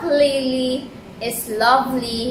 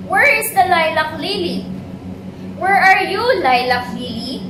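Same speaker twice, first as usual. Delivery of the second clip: calling out; 5 semitones higher, faster than usual. Acted. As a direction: call out across the pond for a lost friend. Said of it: "shout the other lilies".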